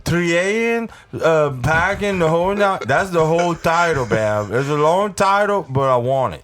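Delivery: squeaky high cartoon voice; goofy high voice. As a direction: pitch it high and silly. High goofy voice pitching movie.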